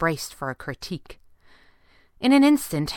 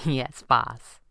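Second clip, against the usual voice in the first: lower, playful assent; grinning; 4 semitones lower than usual. A narrator's reading. Girl humours her boss, lightly grinning and low. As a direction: answer through a grin. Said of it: "she grinned".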